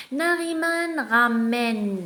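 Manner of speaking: very slow, word by word dictation. Shown as a demonstration. Teacher dictating a text to pupils, slow and clear. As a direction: stretch each word for the pupils. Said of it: "On va commencer".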